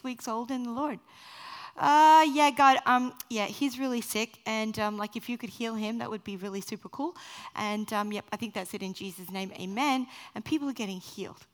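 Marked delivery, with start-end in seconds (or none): 1.8-10.1 novice's awkward prayer. Retold or imitated. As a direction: fumble through praying like a total beginner. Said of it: "I don't know what I'm doing".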